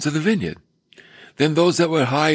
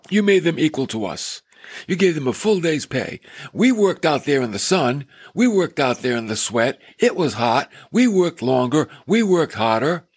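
grumbling complaint. Retold or imitated. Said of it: "they grumbled".

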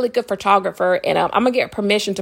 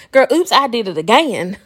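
teasing laugh; 2 semitones higher than usual. Real, not acted. Teasing fan of a pop singer.

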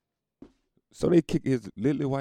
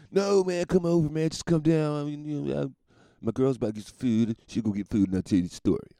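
imitating the cokehead; 5 semitones higher than usual. Voicing the cokehead on phone.

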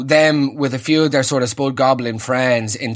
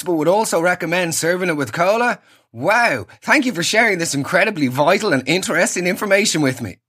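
fake phone call; 3 semitones higher than usual. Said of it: "Don't you hate that?".

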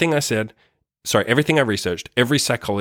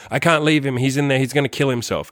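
mock frantic cry, pitched up then easing; retold scream; 3 semitones higher than usual. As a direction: imitate her desperate pleading, high at first. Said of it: "she's like screaming".

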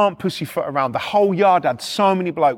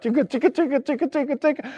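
machine rumble noise; 6 semitones higher, 3 dB quieter, faster than usual. Retold or imitated.

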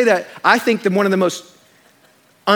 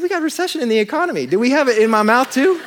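laughing retort; 6 semitones higher, faster than usual. Retold or imitated. Joking back to the dentist.

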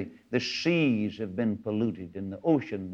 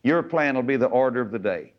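impassioned high preaching prayer; 3 semitones higher than usual. Retold or imitated. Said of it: "get back to Him and say".

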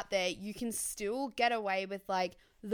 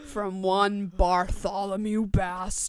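pompous sign-off; 6 dB louder than usual. Acted.

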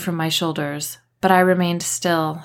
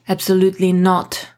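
near shout; 4 dB louder than usual. A narrator's reading. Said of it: "Dominic nearly shouted".

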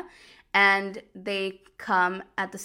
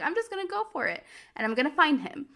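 determined excitement; 8 semitones higher, faster than usual. Retold or imitated. Heroine decides to chase him.

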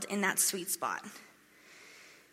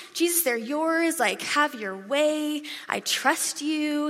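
slow, trusting surrender; 5 semitones higher, much slower than usual. Retold or imitated. Surrendering everything to Jesus.

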